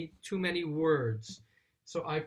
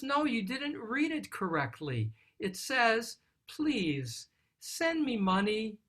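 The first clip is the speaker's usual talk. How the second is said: mother's reading; 4 semitones higher than usual. Retold or imitated. Mother rereading the son's letter to her husband, gently pleading. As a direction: soften it into the son's tender request. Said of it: "she picks up the letter and she says".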